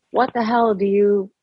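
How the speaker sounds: sharp, hostile snap at a trespasser; spat out angrily. Acted. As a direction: spit the words out in contempt. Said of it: "she spat".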